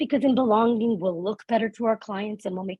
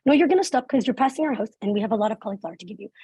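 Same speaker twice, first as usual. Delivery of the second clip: insistent mom; faster than usual. Retold or imitated. Mom telling her child to stop by the house, insistent. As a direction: insist like a mom who won't hear no.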